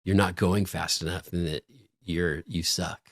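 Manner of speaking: low-volume, confiding undertone; mock whisper. Producers stirring trouble in hosts' ears, mock whisper. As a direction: lean in and pass on gossip softly. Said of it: "would, like, whisper in our ears".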